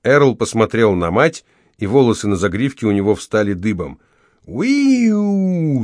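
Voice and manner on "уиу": high piercing "уиу" squeal; mother's bomber-whistle shriek; shrill whistling screech. A narrator's reading. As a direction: screech like a diving plane. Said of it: "снова заверещала она".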